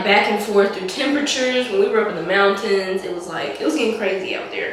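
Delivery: raspy from a cold; hoarse, husky voice from a cold. Real, not acted. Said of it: "why I sound like a smoker right now".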